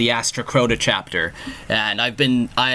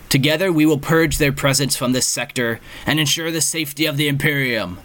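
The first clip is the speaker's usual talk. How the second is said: lightly voiced sergeant rallying troops; a hint of a commanding sergeant; roaring rallying speech; 3 semitones higher than usual. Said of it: "his voice carrying a weight of authority".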